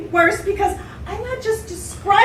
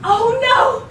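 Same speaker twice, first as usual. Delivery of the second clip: mock fright; 5 semitones higher, slower than usual. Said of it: "in frightened discovery".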